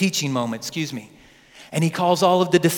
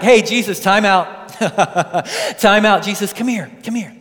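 hammed-up time-out plea; mock urgent Peter; 2 semitones higher, 4 dB louder than usual. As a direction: Peter comically grabbing Jesus. Peter rebukes Jesus comically.

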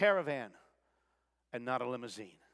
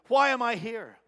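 louder, higher indignant protest; mock complaining; 4 semitones higher, 4 dB louder than usual. Joseph voiced complaining to the Midianite traders, indignant. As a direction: whine at the traders who hold you. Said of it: "instead of complaining".

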